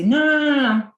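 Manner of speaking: exasperated rant at someone who says they caught a bug; scolding lecture. Retold or imitated. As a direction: scold them hard for blaming germs. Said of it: "So I say".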